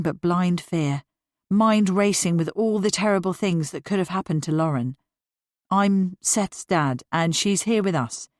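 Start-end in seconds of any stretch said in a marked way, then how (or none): 5.7-8.3 calm. Acted. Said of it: "Matthew continued calmly".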